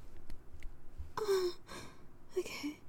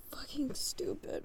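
whispering; 6 dB quieter than usual. Real, not acted. Frustrated aside, whispered.

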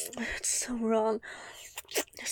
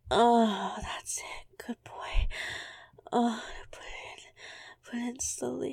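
whispering. Acted. Whispered urging.

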